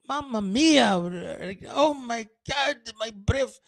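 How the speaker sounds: mock Italian exclaim.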